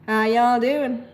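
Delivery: a light attempt at a Tennessee drawl. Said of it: "practicing my Tennessee drawl".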